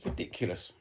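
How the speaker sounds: voiceless, disgusted mutter; disgusted whisper. Real, not acted. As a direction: breathe it out in a whisper. Disgust at the handball decision.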